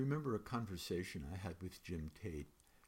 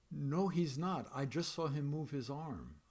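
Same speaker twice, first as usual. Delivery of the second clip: higher and louder, firm contradiction; insistent denial; 5 semitones higher, 4 dB louder than usual. Acted. Narrator contradicting the guard about the dead man, insistent raised denial. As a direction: insist he's wrong.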